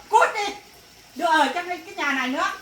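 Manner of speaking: mother yelling at her daughter to get out; angry shout. Acted. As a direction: bark her out of the house.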